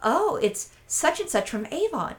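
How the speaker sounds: lightly voiced flattered man, drawn out slowly; imitated flattered man. Proud man telling his admirer the cologne brand, lightly imitated flattered tone.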